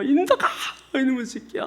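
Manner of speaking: high, tearful scolding cry; mother crying out. Retold or imitated. Mother searching the hill at night, crying out. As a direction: call him like a frantic mother near tears. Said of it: "막 울음 섞인 목소리가 나는데".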